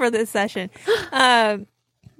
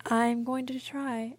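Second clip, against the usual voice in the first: slow and much softer, almost under the breath; a small, embarrassed promise; sheepish; 3 semitones higher, 11 dB quieter, much slower than usual. Real, not acted. Sheepish promise after the story.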